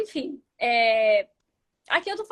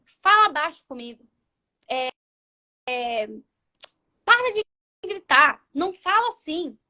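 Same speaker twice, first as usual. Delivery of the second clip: ordem mandona; 3 dB louder than usual. Retold or imitated. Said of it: "em nenhum momento diga assim".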